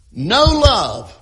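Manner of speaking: NO pushed out loud and heavy; stress on no. Shown as a demonstration. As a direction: lean hard on "No" before love. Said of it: "Emphasis on the word no".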